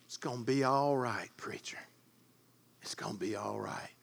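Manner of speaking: put-on low, soft and hushed, calm old man; soft reassuring quote. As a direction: gently brush off the preacher. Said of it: "what would he say".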